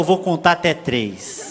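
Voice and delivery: slow, low motherly warning; mock ominous threat. Mother threatening her child with a count, mock ominous. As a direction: draw the threat out, pitched low.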